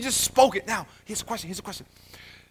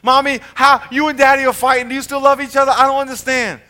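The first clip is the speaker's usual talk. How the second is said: a hint of a worried little child, raised and louder; 5 semitones higher, 5 dB louder than usual. Child asking mommy whether parents still love each other, lightly voiced. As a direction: ask it like a kid scared by fighting parents. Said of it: "when your little child says".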